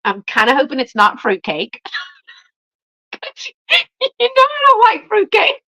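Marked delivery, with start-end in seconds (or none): 4.2-5.6 playful tease. Real, not acted. Teasing the sender about fruitcake.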